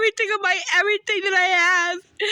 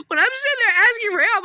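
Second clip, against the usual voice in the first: crying; 3 semitones higher, 3 dB louder, faster than usual. Real, not acted. Distressed plea, crying marked.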